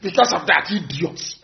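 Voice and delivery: slow, mock-pompous official statement; mocking government voice. Mocking the Abuja statement to the politicians, slow and mock-official. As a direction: sneer it out like a smug official. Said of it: "that fake thing they concocted in Abuja said".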